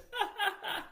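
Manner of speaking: sudden high burst of laughter; laughing at the absurdity of the quote; real laugh. Real, not acted. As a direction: break into a disbelieving laugh.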